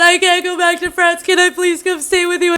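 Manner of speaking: high-pitched imitation of desperate pleading; imitated tearful phone plea, pitched well up; mock bawling. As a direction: beg in a put-on, distraught voice. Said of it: "he calls my sister bawling".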